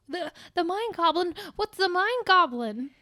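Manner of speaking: slightly slowed, puzzled question; puzzled Peter Parker. Acted. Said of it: "And Peter's like".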